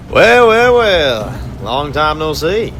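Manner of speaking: high, taunting villain voice, savoring the catch; gloating villain conductor. Acted. Conductor gloats over his handcuffed captives, high and mocking. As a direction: purr over the trapped prisoners like a smug torturer.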